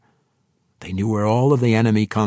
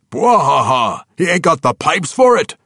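big bellowing laugh, then a high, loud jeer; booming dwarf laugh; 8 semitones higher, 8 dB louder than usual. A narrator's reading. Dwarf mocking the elf's singing, loud laughing jeer. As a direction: roar with laughter at the elf.

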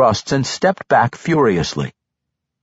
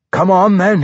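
dwarf calling out, raised; 8 semitones higher, 5 dB louder than usual. Acted. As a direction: call out a challenge gruffly. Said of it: "he called".

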